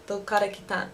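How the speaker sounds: Dokara kitan rattled off quickly; quick native speed. Shown as a demonstration. Local asking where you're from, quick native pace. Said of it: "really, really fast".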